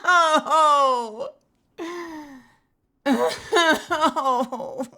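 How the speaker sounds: laughing crying. Real, not acted.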